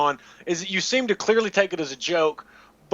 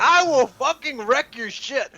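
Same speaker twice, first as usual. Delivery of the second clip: mock threat; 7 semitones higher, slower than usual. Imitating Zach's threats.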